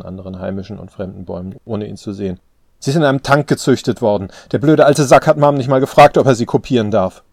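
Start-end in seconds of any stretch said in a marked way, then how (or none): 2.8-7.2 loud, higher, indignant cry; sudden emotional outburst. A narrator's reading. Daughter railing about the cloning, sudden outburst. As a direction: let the anger burst out. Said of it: "rief sie mit einer plötzlichen Gefühlswallung".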